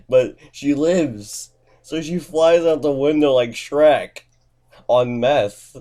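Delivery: loud, high, hyped-up narration; excited storytelling. Real, not acted. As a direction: belt out the absurd climax. Hyped climax of absurd story.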